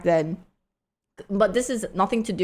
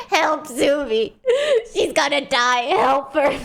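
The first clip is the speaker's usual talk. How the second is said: mock panic; 7 semitones higher than usual. Retells moderators' panicked calls for help.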